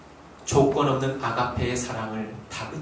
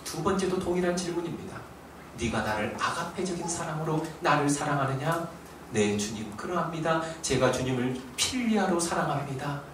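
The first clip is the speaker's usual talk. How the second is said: hushed retelling; 6 dB quieter than usual. Acted. Sudden drop after shouting.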